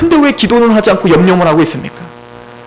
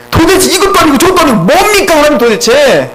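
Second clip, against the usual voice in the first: mock-exasperated plea, pitched higher; exasperated complaint; 4 semitones higher than usual. Preacher voices a worried believer protesting to God, acted exasperation.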